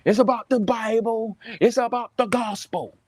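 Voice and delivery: imitating a slogan-spouting apologist; mock preachy apologist. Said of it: "Everybody says that".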